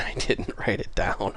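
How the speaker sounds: usual speaking voice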